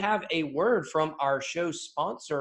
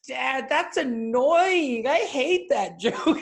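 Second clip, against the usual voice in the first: put-on high, slow, whiny kid voice with a laugh; annoyed six-year-old daughter; 8 semitones higher, 4 dB louder, much slower than usual. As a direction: whine it like a fed-up little girl. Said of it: "she goes".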